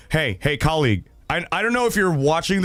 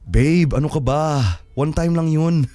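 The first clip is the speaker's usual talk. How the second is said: mock pleading husband; 5 semitones lower, faster than usual. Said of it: "Yeah, like".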